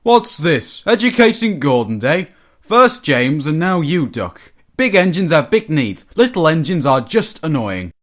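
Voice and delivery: lightly voiced pompous big engine, affronted; self-important engine telling off the little ones; indignant engine Gordon. A narrator's reading.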